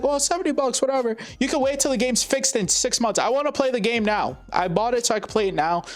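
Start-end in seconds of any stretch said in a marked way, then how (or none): 0.0-3.2 higher mock voice of a shrugging fan; mocking dismissive gamer. Mocking fans who shrug off a broken launch, higher mock voice. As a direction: mimic the people who say just wait. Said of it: "It is like".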